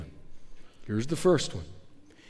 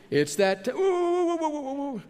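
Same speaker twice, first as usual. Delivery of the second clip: spooked; 10 semitones higher than usual. Acted. Laban fleeing from menstrual demons.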